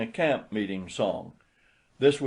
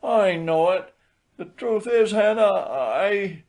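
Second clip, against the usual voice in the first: meek; 9 semitones higher, 4 dB louder than usual. A narrator's reading. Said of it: "said he meekly".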